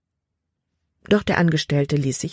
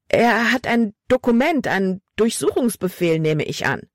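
put-on worried girl; 6 semitones higher than usual. A narrator's reading. Frightened girl warns her father.

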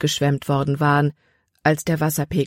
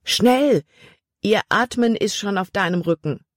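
urgent call; 4 semitones higher than usual. Acted. Jordan urges her across.

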